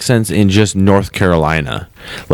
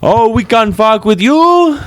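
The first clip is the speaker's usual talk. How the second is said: high, slow yokel voice; mock feuding local; 12 semitones higher, slower than usual. Outcast answering the hostile neighbours, mock feuding voice. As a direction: taunt back in a slow, high-pitched put-on voice. Plays the other feuding side.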